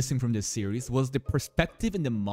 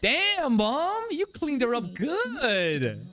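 excited shout; 9 semitones higher, much slower than usual. Real, not acted. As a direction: cheer it out. Cheering the mom's makeover.

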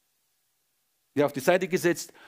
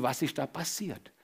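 whispered question; 6 dB quieter than usual. Retold or imitated. Scientists puzzle over harvest miracle.

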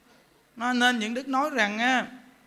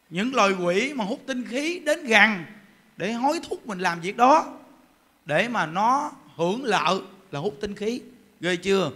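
ordinary talk, nothing marked

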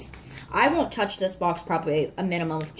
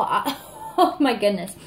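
laughing. Real, not acted. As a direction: laugh it off, still giddy. Laughing at own reaction.

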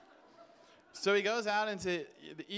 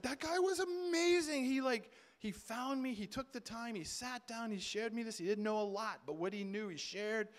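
put-on excited old man; 5 semitones higher than usual. Old man praising the young man.

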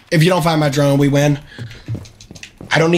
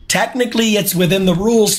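cheeky; 6 semitones higher than usual. Real, not acted. Justifying cheeky tactic.

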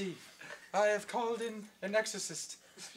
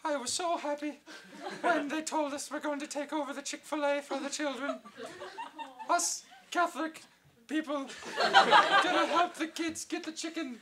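put-on Irish accent. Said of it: "you are an Irish nun".

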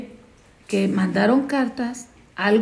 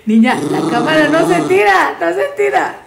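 regaño fuerte; 6 semitones higher, 6 dB louder than usual. Real, not acted. Regaña a la perrita.

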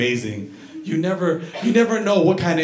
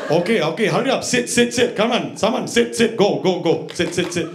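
high, hurried barber ordering him to sit; impatient barber; 4 semitones higher than usual. Retold or imitated. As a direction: rush him into the chair. Impatient barber hurrying customer.

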